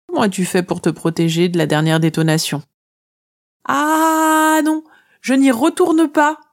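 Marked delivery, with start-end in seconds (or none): 3.7-6.4 high, loud protesting no; Lily refuses the icy water, loud and high; firm refusal. Acted. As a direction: refuse it outright, voice up. Refuses to dive back in.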